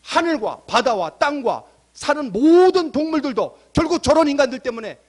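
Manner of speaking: acted prophet's lament, not fully wailed; mock crying out. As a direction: plead upward in mounting indignation, a touch of a wail. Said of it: "라고 막 울부짖는 거예요".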